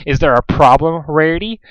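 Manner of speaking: speaking through gritted teeth. Acted. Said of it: "through gritted teeth".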